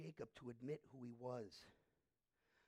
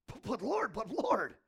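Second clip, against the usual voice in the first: mock pleading; 6 semitones higher, 13 dB louder, slower than usual. Jacob pleading with God.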